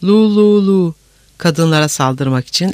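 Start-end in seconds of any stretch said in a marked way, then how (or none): 0.0-0.9 high, louder soldiers' cheer; joyful shouting. A narrator's reading. Soldiers cheering the fallen castle, joyful shouting. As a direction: whoop out the syllables in celebration. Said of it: "Askerler sevinçle bağırıştılar".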